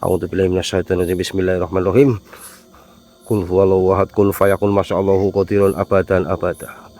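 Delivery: loud, driving recitation of ruqyah verses; exorcism prayer. Real, not acted. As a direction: pray the spirit away with force. (bacaan ruqyah lantang)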